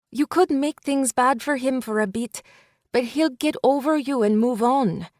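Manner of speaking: best friend stopping Ruby from going back; urgent friend. Acted. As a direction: hold her back with pleading urgency. Elena blunt advice.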